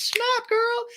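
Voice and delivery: squeaky sidekick cheering the burn; little Lala squeak. Retold or imitated. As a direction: chirp it like a cartoon sidekick. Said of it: "and little Lala goes".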